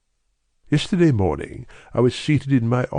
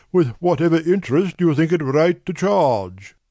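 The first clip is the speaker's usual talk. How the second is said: much higher, deliberate voice of a great nobleman; brusque nobleman; 6 semitones higher than usual. A narrator's reading. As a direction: push through a distasteful errand. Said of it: "with the air of a man who wishes to hurry quickly through a disagreeable task".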